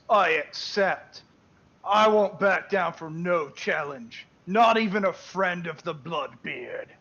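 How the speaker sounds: slow, emphatic orc voice; orc chief's acceptance. Acted. Orc chief accepts a duel challenge, slow proclamation. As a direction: declare it slowly as a proud orc warrior.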